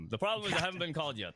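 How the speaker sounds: fast, stifling a laugh; rushed through laughter. Real, not acted. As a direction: blurt it out while trying not to laugh.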